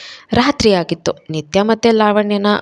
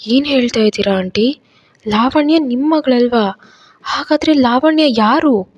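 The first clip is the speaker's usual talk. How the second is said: rising higher with each question, amazed; astonished; 6 semitones higher than usual. A narrator's reading. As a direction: disbelief climbing line by line. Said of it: "ನಿತ್ಯ ಆಶ್ಚರ್ಯದಲ್ಲಿ". (ಆಶ್ಚರ್ಯದಿಂದ ಏರುತ್ತಾ ಹೋಗುವ ಪ್ರಶ್ನೆಗಳು)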